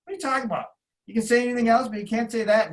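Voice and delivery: mock heated scolding from the boss; mad. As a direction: scold him like a boss who was furious. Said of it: "Dana was mad".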